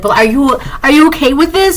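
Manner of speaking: high-pitched incredulous question, rising at the end; imitating tearful disbelief. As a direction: imitate an upset person pressing for a reaction. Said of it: "And they're crying".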